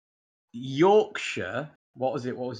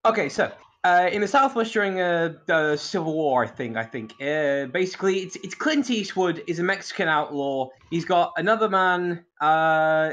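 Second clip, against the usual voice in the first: higher, hurried one-minute recap; minute-long movie summary; rushed synopsis; 3 semitones higher than usual. Shown as a demonstration. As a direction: race through the plot before time's up. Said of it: "a minute synopsis".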